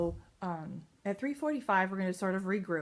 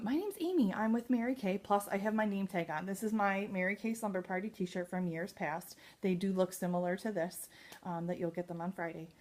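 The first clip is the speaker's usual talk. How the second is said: friendly intro demo. Shown as a demonstration. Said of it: "and then I'll say".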